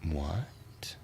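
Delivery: whispering at the computer. Real, not acted. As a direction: breathe it under your breath.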